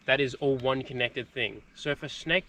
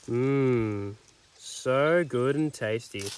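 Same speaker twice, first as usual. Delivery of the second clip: savoring; 3 semitones lower, much slower than usual. Pretend. Mock beer advert.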